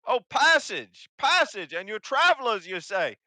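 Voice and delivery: high, loud, brash goblin voice; loud hobgoblin. Acted. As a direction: bark it out like a pushy hobgoblin.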